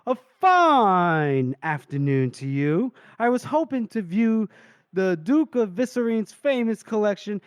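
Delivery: high, drawn-out showman's announcement; theatrical grand entrance. Acted. Narrator voicing a character who appears above the group, theatrical. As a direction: make a flourishing, slow entrance speech.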